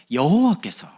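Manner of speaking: high, emphatic preacher's cry of 여호와께서; 설교하듯 힘있게; preaching. Acted. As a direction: proclaim it to the congregation. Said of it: "preaching climax".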